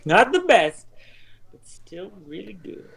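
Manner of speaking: loud, high hype-man delivery; hyped slogan. Acted. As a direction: shout it like a slogan. Slogan shouted for league shirts.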